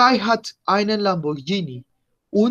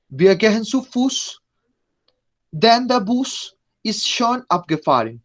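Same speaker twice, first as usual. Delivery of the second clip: lectura lenta de ejemplo; 2 semitones higher than usual. Shown as a demonstration. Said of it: "para escuchar la pronunciación".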